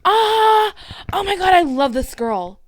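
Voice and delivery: loud, high-pitched burst of delight; excited squeal. Real, not acted. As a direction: squeal with delight, then gush loudly. Delighted by website visitor.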